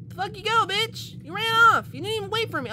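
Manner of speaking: put-on high, bratty little girl teasing the stranger; a cheeky little girl talking to a stranger on the train. Voices the girl again.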